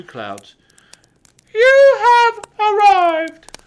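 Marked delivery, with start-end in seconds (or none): 1.5-3.6 robotic sat nav, much higher, loud and slow; unhelpful sat nav voice. A narrator's reading. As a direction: announce it like a flat machine voice. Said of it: "said the Santa Nav unhelpfully".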